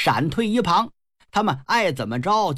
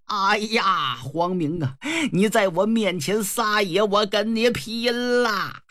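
outraged cry with a long drawn final threat; enraged old man; 3 semitones higher than usual. Acted. Insulted old general challenges Huang Ming to fight, enraged. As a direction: build to a slow, high battle cry.

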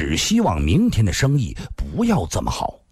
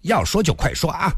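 much higher voice of an icy woman; cold, irritated; 9 semitones higher than usual. A narrator's reading. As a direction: scold her coldly, pitched high. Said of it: "冷冷地说道". (冷冷地斥责)

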